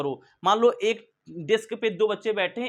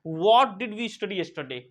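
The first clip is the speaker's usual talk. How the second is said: slow, clear question; slow demo line; slow model sentence; much slower than usual. Shown as a demonstration. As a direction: say it slowly to copy. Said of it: "तो उसको बोलेंगे".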